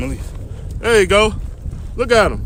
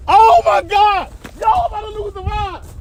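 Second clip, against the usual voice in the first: strained excitement; 5 semitones higher than usual. Real, not acted. Straining on the rod.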